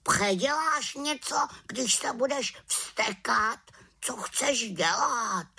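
high, nagging raven voice; a cheeky raven teasing her; talking raven. Acted. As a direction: wise raven mocking the witch's magic, high voice. Raven scolds.

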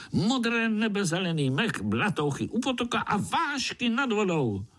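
high, dreamy little spider voice; eager little spider. A narrator's reading. Pája tempts the house spiders, high dreamy praise. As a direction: paint the forest for them.

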